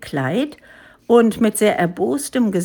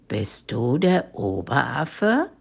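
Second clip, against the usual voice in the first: menacing tigress; 7 semitones lower than usual. A narrator's reading. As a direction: draw it out, rising at the end. Tigress confronts the head ape.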